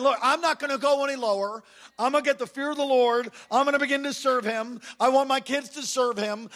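resolute, emphatic pledge; determined vow. Acted. Acted vow of a repentant person.

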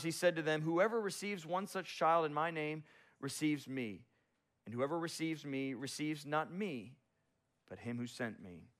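measured Bible reading voice; solemn scripture reading. Acted. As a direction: read it as holy text, steady and grave.

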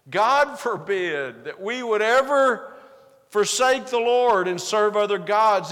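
slow, loud vow of the people, stretching ever and forsake; emphatic people's vow. Acted. The people insisting to the preacher, slow and loud. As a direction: proclaim it as a crowd swearing never to stray. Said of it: "Doesn't that sound good?".

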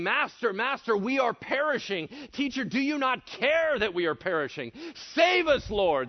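acted panicked plea, high and loud; freaking out. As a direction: cry for rescue, pitch leaping at the end. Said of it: "They're freaking out".

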